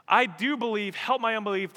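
high, loud pleading cry of the verse; the same verse now prayed at full force; fervent prayer. Shown as a demonstration. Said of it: "how often I pray that prayer".

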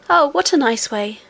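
delighted little princess, lifted pitch; excited cry. Acted. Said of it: "cried the princess".

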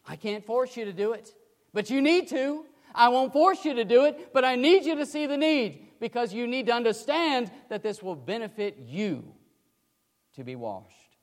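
plead, then let it settle; voicing a pleading mentor. Ananias gently urging Saul, building then fading.

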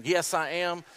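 normal talking voice

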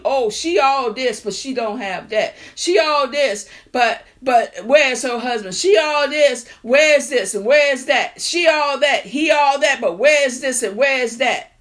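mimicking the people who mock you; mocking gossip. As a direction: sneer like a nosy neighbour. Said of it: "See, they mocking him".

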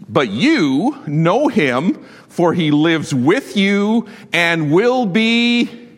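slow, deliberate scripture read; solemn, slow reading of Jesus' words. Acted. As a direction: linger over each word of the promise. Reads scripture slowly.

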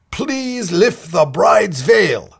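slow, high robot voice; drawn-out mechanical robot; tinny robot voice. Retold or imitated. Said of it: "the robot said in a tinny voice".

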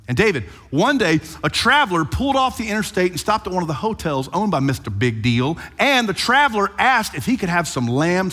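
lively storyteller voice spinning a folksy parable; storytelling parable. Acted. Preacher retelling Nathan's parable to David, animated storytelling. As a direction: tell the tale like a porch storyteller, bright and animated.

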